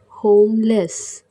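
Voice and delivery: होमलेस drawn out slowly, each syllable clear; slow repeat. Shown as a demonstration. Teacher repeating होमलेस for Hindi learners, slow and clear. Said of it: "बेघर".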